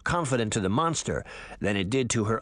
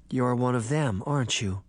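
sad. Acted. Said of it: "Sabrina said sadly".

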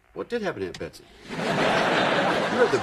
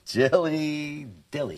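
slow, stretched-out relish; playful drawn-out mocking; teasing repeat; much slower than usual. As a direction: savour the silly nickname, drawing it out. Husband savours the teasing nickname.

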